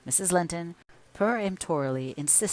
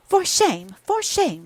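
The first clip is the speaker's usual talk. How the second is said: high, loud indignant cry, higher the second time; girl crying shame at her sister-in-law; angry repeat; 12 semitones higher, 8 dB louder, slower than usual. Acted. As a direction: fling it back in outrage. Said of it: "she repeated angrily".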